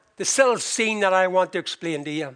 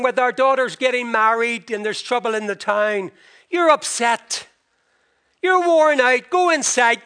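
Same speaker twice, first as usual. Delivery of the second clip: raised, higher, bustling wife; fussing scold; 4 semitones higher, 4 dB louder than usual. Retold or imitated. Wife fussing at husband she thinks is ill, raised voice. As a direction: shoo him off to bed. Goldie fusses over worried Tevye.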